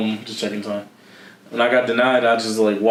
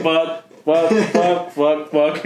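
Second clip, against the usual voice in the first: repeated frustrated curses; 5 semitones higher, slower than usual. Retold or imitated. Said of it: "You sound like the Tourette's guy".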